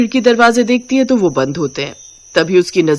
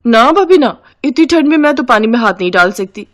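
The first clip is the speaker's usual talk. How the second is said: put-on higher, louder refusing young girl; whiny sister-in-law; 4 semitones higher, 3 dB louder than usual. Sister-in-law refusing to help with the dishes, higher and whiny. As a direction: whine your way out of the chore.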